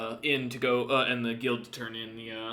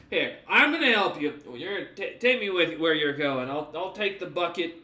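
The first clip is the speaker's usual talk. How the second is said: helpful guard; 3 semitones higher, 5 dB louder than usual. Acted. Guard insisting on carrying the bucket, eager and louder. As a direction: press the help on them eagerly. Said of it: "Looks at you up and down and goes".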